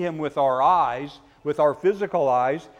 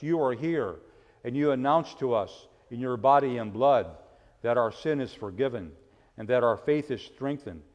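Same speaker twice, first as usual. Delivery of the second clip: leading prayer; 3 semitones lower than usual. Real, not acted. Pastor giving thanks to Jesus with children, prayerful. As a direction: pray in short phrases, easing down toward the close.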